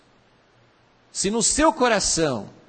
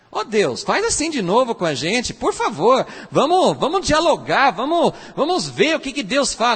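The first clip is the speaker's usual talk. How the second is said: eager pleading prayer; 4 semitones higher than usual. Retold or imitated. People begging God for dialogue.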